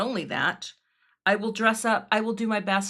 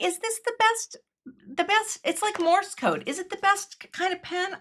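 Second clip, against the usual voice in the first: playful musing; 9 semitones higher than usual. Real, not acted. Playful wondering about pens.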